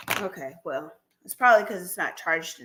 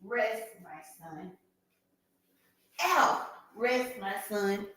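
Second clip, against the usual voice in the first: tender hush; 9 dB quieter than usual. Real, not acted. Softly putting the dog down.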